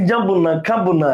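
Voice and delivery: lightly nasalised quoted refusal; nasal refusal. Shown as a demonstration. Teacher pointing out friend's pronunciation, nasal demo. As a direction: show the words said through the nose. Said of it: "নাক দিয়ে উচ্চারণ করছে".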